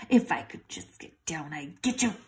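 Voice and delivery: hushed threatening whisper. Acted. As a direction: threaten under your breath. Dog threatens mouse.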